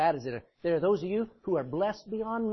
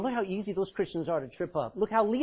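cackling devil, much higher and louder; mocking devil; 6 semitones higher, 9 dB louder than usual. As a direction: gloat and laugh at the fallen. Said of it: "Laughing, going".

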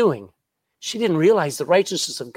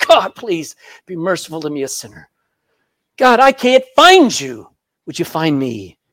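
humble plea; 3 dB louder than usual. Retold or imitated. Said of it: "cry out to him and say".

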